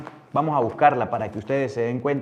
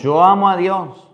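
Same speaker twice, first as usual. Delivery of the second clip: proclamación fuerte; 4 semitones higher, 8 dB louder than usual. Retold or imitated. Imita al que dice amar.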